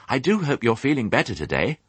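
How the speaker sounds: high, courteous little pig; polite piglet. Acted. Piglet asking after the ewe's health, polite. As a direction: enquire kindly in a piglet voice.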